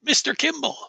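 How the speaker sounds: put-on lilting Norfolk-accented old acquaintance, reminiscing. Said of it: "a Norfolk fucking accent".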